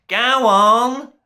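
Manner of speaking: loud, high angry order; yelling. A narrator's reading. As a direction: yell at Gap and Filling to move. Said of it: "yelled the Duke".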